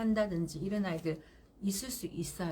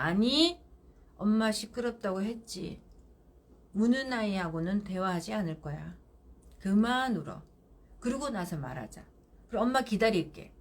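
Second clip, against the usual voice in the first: firm, calm. Shown as a demonstration. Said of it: "문 밖에서 이야기합니다".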